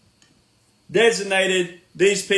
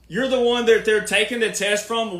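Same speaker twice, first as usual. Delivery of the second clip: ordinary talk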